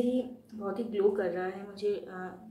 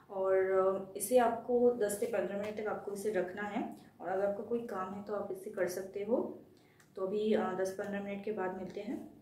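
face covered by wet sheet; speaking with mask on face; through a sheet mask. Real, not acted. Seen 0: White sheet mask covers face throughout; reference frames show bare face.

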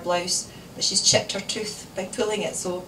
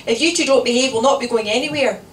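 loud, raised-pitch warning; shouting mother; 4 semitones higher, 9 dB louder than usual. A narrator's reading. Mother threatening two squabbling children, shouting. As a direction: lay down the law at full voice. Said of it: "shouted Kath".

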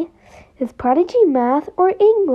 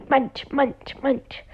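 chewing noises; 3 semitones lower, 8 dB quieter than usual. Acted. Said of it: "why are you eating the ground?".

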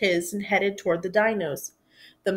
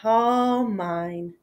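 sighed. Acted. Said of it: "hugged the toys and sighed".

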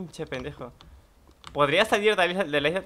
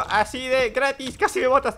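high, loud and startled; yelling at a near fall; excited shout; 9 semitones higher, 6 dB louder than usual. Real, not acted. Close call in a fight. (grito de sobresalto)

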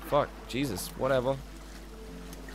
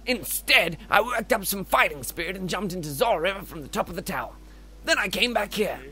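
lilting, grandly earnest game voice; theatrical storyteller character; 3 semitones higher than usual. Acted. Game character recounting his dive into the river, theatrical. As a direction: recount it with self-important flourish.

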